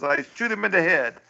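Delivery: cartoon Pol Pot voice. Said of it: "He says".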